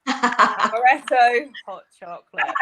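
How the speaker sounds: slow, loud mock German accent; hammed-up German accent, amused. Shown as a demonstration. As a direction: order slowly and loudly in German-accented English. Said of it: "we wanna hear it in the, with the German accent".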